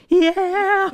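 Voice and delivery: high, loud yell; mock battle yell. Cohost recreating his Dark Souls yell. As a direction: bellow it like a war cry. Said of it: "I tried once in Dark Souls".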